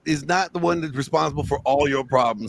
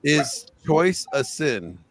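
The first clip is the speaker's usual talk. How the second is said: slow, deliberate question; quoting a man's slow philosophical question; slow quoted question; much slower than usual. Retold or imitated. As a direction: ask it slowly and weighty. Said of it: "he says".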